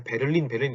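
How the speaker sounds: quick "베를린" with every syllable sounded; "베를린" run off fast in three Korean syllables; odd Korean-style reading. Shown as a demonstration. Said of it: "이러면 좀 되게 이상하거든요".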